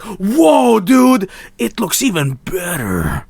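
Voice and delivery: high, awed dude voice; mock impressed gamer. Streamer mimicking an amazed player, high and excited. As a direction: gush like a wowed gamer.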